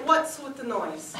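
offended huff building to a very high, loud laughing shout; indignant raccoon. Pretend. Raccoon looking back at the mother as he waddles out, building indignant yell. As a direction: scold the human, then blow up. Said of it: "as if to say".

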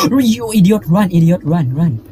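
being chased. Real, not acted. Fleeing the monster.

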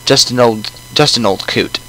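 put-on old coot with a British accent; lightly voiced British old man. Player voices the old man, British accent. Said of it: "He's gonna have a British accent".

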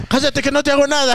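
high imitated scolding; scolding mother. Mother silencing screaming daughter, high mock scolding.

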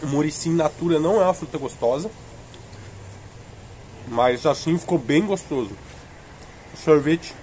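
speaking around a cold bite; words muffled by ice cream; talking with popsicle at lips. Real, not acted. Seen 1: Face clear; popsicle held against lips, biting while speaking throughout.

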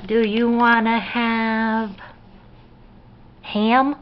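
slow, suspenseful build-up to the food. Real, not acted. Parent offering baby Thanksgiving meat, teasing baby talk. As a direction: stretch the question out, lifting at the end.

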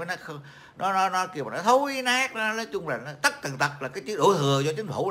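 lightly mocking a complainer who blames the government; imitating Dương Chí Cụi. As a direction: parody a blame-the-society ranter, pitch climbing. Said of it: "tao bắt chước mấy thằng Dương Chí Cụi nó nói".

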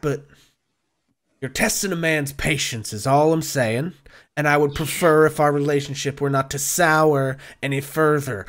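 lightly voiced tough giving a warning; measured veiled threat from a loan shark; a hint of a tough guy, running out of patience; debt collector, losing patience. Game master plays Maloon.

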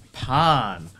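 hammed-up pretentious French, loud and drawn out; slow, high, mock-French pronouncement; pretentious French accent. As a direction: stretch it into a snooty, overblown French flourish. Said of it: "Like, really pretentious?".

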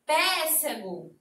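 Pêssego said slowly with an open é, like péssego; slow mock wrong péssego; funny wrong pronunciation. Shown as a demonstration. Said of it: "Fica até engraçado".

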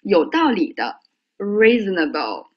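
reasonable read slowly with stress on the first syllable; teacher reading reasonable slowly for the class; slow careful demo. Shown as a demonstration. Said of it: "你们听辉哥读一下啊".

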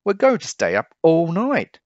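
high and loud, thrilled; boasting with glee; excited boast. A narrator's reading. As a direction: up all night cheer. Jim eager boast.

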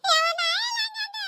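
put-on high, slow childish whine; child protesting he never said that; whining child. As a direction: drag it out like a pleading kid.

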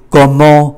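"Comment" ending in a nasal an; nasal vowel. Shown as a demonstration. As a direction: finish "Comment" through the nose without t. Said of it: "là âm mũi". ("Comment" kết thúc bằng âm mũi)

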